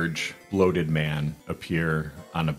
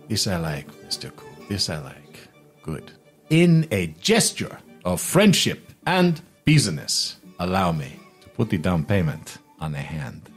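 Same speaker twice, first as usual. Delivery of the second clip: pleased merchant; 2 semitones higher, 4 dB louder than usual. Acted. Merchant seals friendship and business, pleased. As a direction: announce the down payment with a flourish. Game master voices Jubal sealing deal.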